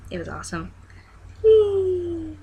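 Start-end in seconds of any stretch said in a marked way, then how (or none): 1.4-2.4 excited. Real, not acted. Showing off Lego toy.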